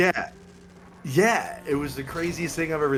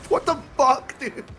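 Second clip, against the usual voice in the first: higher, louder what-the-fuck; shocked outburst; 13 semitones higher, 4 dB louder than usual. Retold or imitated. Friends stunned at the table, surprised loud outburst. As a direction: blurt it out, stunned.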